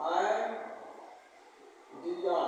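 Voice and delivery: softly drawn-out आइडिया for the class; slow sounding out. Shown as a demonstration. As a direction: stretch आइडिया to show its opening sound. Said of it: "ऐसे लिखेंगे आप".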